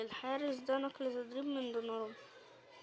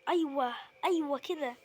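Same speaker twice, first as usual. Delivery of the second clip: loud happy yes yes; loud celebration; celebrating; 2 semitones higher, 6 dB louder than usual. Real, not acted. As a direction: cheer the goal out loud. Celebrating the goal.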